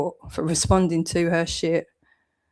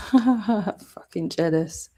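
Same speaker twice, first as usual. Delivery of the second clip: mocking laugh; 2 semitones higher, much slower than usual. Real, not acted. Laughing at the accusation.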